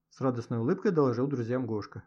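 ordinary delivery

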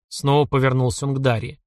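ordinary delivery

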